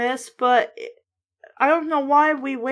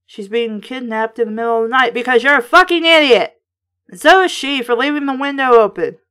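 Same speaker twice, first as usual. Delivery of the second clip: louder, fast, fed-up rant; exasperated rant; 6 dB louder, faster than usual. Real, not acted. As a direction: tear into the character for being stupid. Ranting at the character.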